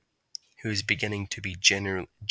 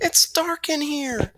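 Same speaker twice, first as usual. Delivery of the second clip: frightened whisper; slower than usual. A narrator's reading. Trapped in cold dark fridge.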